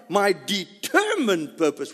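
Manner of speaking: "determined" stretched out with force; slow, insistent stress on "determined"; emphatic. Shown as a demonstration. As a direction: punch the middle of "determined" slowly. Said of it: "once you add on".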